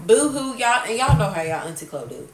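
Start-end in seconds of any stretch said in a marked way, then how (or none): 0.1-0.6 exaggerated ugly-cry sob; mock boo-hoo sob. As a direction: wail a fake boo-hoo. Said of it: "the ugly cry".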